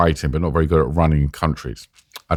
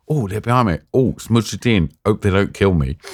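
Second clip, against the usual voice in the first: cheap vaudeville. Shown as a demonstration. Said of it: "in some cheap, vaudeville".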